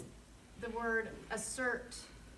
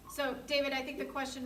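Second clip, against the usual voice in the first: calling out; 5 semitones higher, 4 dB louder than usual. Real, not acted. Calling out to remote David.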